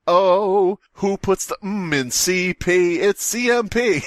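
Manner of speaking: high, laughing shout of the letters; cracking up at the typo; laughing protest. Real, not acted. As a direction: squeal the correction through laughter.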